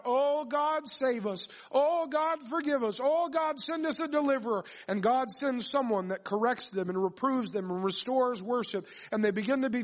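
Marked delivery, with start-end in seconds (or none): 0.0-4.6 high, pleading cry to God. Acted. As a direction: cry out for rescue in a raised pitch. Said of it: "they begin to cry out".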